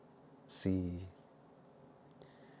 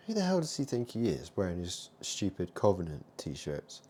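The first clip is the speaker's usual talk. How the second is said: mock outrage; 5 dB louder than usual.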